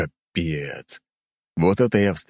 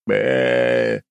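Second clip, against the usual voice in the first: stunned bleat; 6 semitones lower, 3 dB louder than usual. A narrator's reading. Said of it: "всё, что мог я сказать, это было что-то типа".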